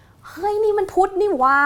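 high, loud and slow surprise; teacher's amazed discovery, high and loud; surprised realization. Retold or imitated. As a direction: exclaim as it dawns on you. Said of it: "อาจารย์ตุล".

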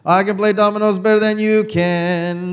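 dad bragging over dominoes; retold boast. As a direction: brag like a cocky father.

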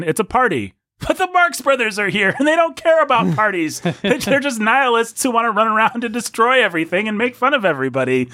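high-pitched comic protest; mock excitement. Host pitching the Marx Brothers premise, mock excitement. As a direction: pitch it way up, playfully scandalised.

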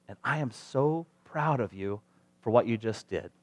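soft, heartfelt praise; tender parental pride. Acted. Parent praising a child who forgave, tender pride. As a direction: tell the child gently and sincerely.

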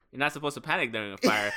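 retold unbothered mom, delivered evenly; super chill. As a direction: play the mom as totally unfazed. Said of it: "she was super chill about it".

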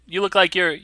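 high, lightly voiced shop owner; shopkeeper character. Shop owner asks a scout his name, shopkeeper voice.

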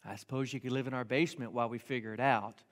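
low, hesitant retold reply; long pause, then give in quietly; reluctant agreement. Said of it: "And then he goes".

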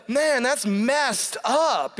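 slow, drawn-out that's messed up; mock dismay. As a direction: pretend to be shocked by the story. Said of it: "You're supposed to go".

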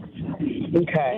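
caller on a noisy car speakerphone; static-filled phone line; crackly speakerphone. Real, not acted. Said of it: "I had you on the car speaker".

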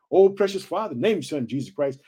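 low-pitched spoken prayer, with surges in volume; closing prayer. Real, not acted. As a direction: lead the congregation in earnest prayer.

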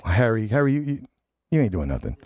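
ordinary delivery

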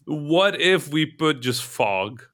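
hammy dev shrugging off bugs; playing a game developer. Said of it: "they're being game developers".

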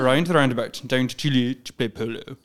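posh English, around as a-rind with an I sound; lightly posh English, around said a-rind; posh English accent. Shown as a demonstration. Host repeats the phrase in a light posh English accent. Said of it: "like a little bit of I".

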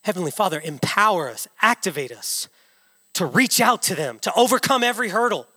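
measured prayer rising to a firm close; heartfelt spoken prayer from the pulpit; earnest prayer. Real, not acted. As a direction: pray in short, earnest petitions. Leads a short prayer.

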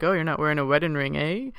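put-on half-hearted Irish accent, quick; failed Irish accent. Retelling Terrence's line to Danny, weak Irish accent. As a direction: attempt an Irish lilt, barely there. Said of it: "I can't do an Irish accent".

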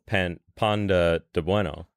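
halting, slowed mock Italian street seller; hesitant attempt at an Italian accent; horrible Italian accent. Retelling an Italian street seller's cry in Bogota, bad Italian accent. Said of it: "My horrible Italian accent".

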